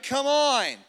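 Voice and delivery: high, loud rallying cry; fired-up preacher's prod; rousing urging. Real, not acted. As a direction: urge the crowd on. Rallying the congregation.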